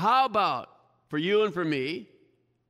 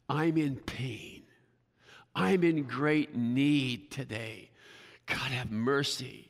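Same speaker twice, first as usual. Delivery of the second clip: pleading for mercy; 5 semitones lower, 4 dB quieter than usual. Retold or imitated. Preacher voices the Canaanite woman begging Jesus, soft and pleading. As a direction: beg quietly, like someone worn down by pain. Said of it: "was crying".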